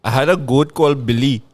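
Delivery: lightly put-on Indian storytelling accent. Shown as a demonstration. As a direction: tell it with an amateur Indian accent. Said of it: "So this sounds Indian".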